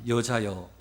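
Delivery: slow, low, measured angel; lightly voiced angel, drawing out the question; angel's question. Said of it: "천사들이 뭐라고 그러냐면".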